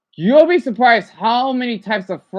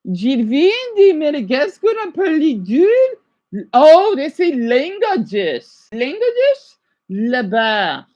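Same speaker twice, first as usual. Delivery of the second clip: slow, careful French; attempted French; 5 semitones higher, 4 dB louder than usual. Shown as a demonstration. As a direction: sound out the French slowly. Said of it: "imitating French speakers".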